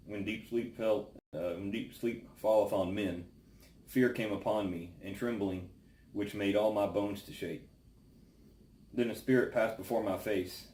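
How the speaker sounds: solemn, measured Bible reading aloud; scripture reading. Acted. Reads Job chapter four aloud.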